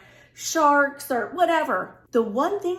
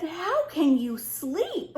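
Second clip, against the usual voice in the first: incredulous; 4 semitones higher, much slower than usual. Retold or imitated. Incredulous at husband sleeping.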